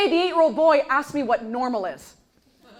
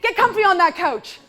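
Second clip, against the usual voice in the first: sarcastic indulgent mom; 5 semitones higher, 4 dB louder than usual. Retold or imitated. Mom to kids at morning, sarcastic permission. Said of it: "what they must hear".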